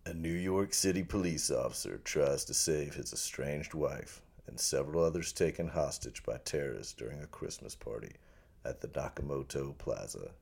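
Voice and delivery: low, hushed trailer narrator; movie trailer voice. Acted. Podcast guest reading Die Hard log line, trailer voice. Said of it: "do the In the World voice".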